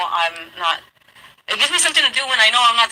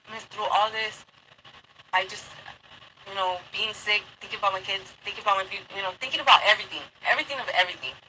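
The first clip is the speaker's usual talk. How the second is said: softer, worn-out plea to the officer; soft pleading; 7 dB quieter than usual. Retold or imitated. Explaining to the officer about her kids, soft tired plea.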